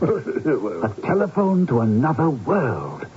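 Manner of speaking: drawn out, savouring each word; slow and savouring. Acted. Arthur savours the phrase slowly.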